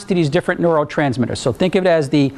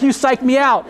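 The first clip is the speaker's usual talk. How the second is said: laughing protest; 8 semitones higher than usual. Retold or imitated. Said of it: "I'm like".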